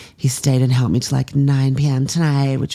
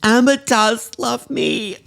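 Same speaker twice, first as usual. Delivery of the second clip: high, drawn-out elation; thrilled, pitch soaring; overjoyed; 9 semitones higher than usual. Acted. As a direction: squeal it, giddy with love. Learns that Amber loves her.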